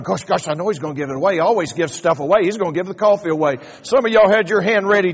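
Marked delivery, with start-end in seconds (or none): 0.0-3.6 fast mock fretting churchgoer; crowd's inner voice. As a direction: rattle off a worried listener's thoughts. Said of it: "You're going".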